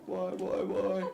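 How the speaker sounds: high, rising mock wail; high mock sobbing why. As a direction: wail the whys in hammed-up grief. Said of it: "starts crying".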